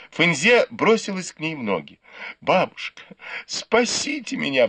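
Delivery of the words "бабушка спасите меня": pleading cry, rising high on the plea; мольба о спасении. A narrator's reading. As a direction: beg grandmother for rescue, voice climbing. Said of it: "взмолилась она". (жалобная мольба, голос взлетает вверх)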